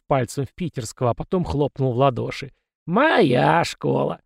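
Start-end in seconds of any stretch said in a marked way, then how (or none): 2.9-4.2 slow, high, rising proud boast. Acted. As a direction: savour the praise, tune rising on «моя». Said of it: "просиял Василий". (гордо и медленно, «моя» с подъёмом)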